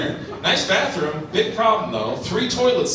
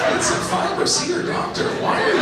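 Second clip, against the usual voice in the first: exasperated rant. Retold or imitated. Ranting back at heckler.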